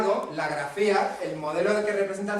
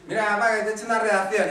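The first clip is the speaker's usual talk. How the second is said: higher, louder imitation of an excited child; eager child; 4 semitones higher, 6 dB louder than usual. Child showing papá a new essay, imitated eager excitement. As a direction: play a child proudly presenting homework.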